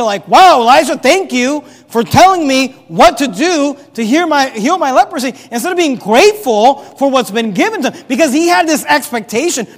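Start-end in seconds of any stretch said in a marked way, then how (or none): 0.3-5.3 thankful. Acted. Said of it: "instead of him being thankful".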